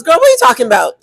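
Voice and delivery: a hint of a sassy best friend; lightly voiced cheering friend; hype friend pep talk. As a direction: pump her up like a girlfriend on the phone. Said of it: "My red zone friend says".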